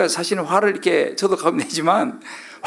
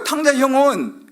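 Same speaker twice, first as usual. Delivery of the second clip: ordinary talk, nothing marked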